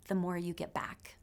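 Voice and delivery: soft, whispered close to the point. Real, not acted. Telling friends the lesson, whispered. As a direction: breathe it out softly.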